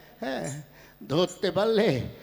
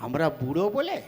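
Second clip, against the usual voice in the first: much softer, lower muttered plotting; conspiratorial hush; 6 semitones lower, 8 dB quieter than usual. Acted. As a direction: whisper the plan to your ally. Plotting aside to other old man. (ফিসফিস করে ষড়যন্ত্র)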